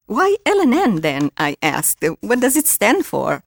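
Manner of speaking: animated first-person story narration; expressive author reading to an audience; memoir reading. Acted. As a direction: read the memoir aloud with lively emphasis. Reads memoir passage aloud.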